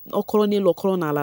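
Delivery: lightly imitating slurred, up-and-down talk; playful mock of drunken rambling; mock tipsy babble. Vlogger mimicking a housemate who may be drunk, mock tipsy babble. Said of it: "if she talk go up, she go talk go down".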